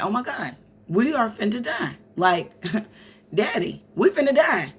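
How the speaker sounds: high-pitched mock panic with a laugh; imitating a frightened child's high cry; retold panic. Child tells daddy they will die, mock panic.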